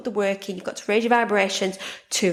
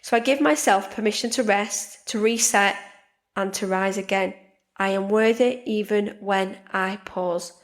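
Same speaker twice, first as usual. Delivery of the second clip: affirmation. Shown as a demonstration. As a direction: speak it as a calm promise to yourself. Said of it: "make some manifestations".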